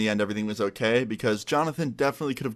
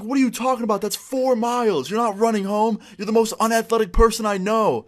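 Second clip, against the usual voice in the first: high-pitched incredulous calling out; re-enacted yelling after a friend; acted shouting; 10 semitones higher than usual. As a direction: argue at a distance, voice pitched way up. Shouting exchange down the street.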